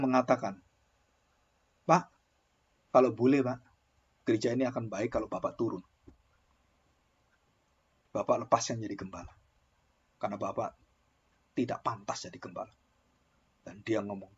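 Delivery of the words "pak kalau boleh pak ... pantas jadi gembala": polite congregant. Retold or imitated. Congregant asks pastor to resign.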